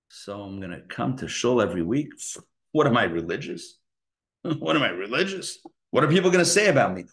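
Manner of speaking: mock self-doubting inner voice, fast and incredulous. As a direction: play the nervous inner voice that talks itself down. Inner voice of false humility.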